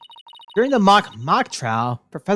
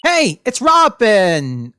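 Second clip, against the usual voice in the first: slow, drawn-out hearty call; hearty character greeting; much slower than usual. Acted. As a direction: announce yourself with gusto. Calls out in character, loudly.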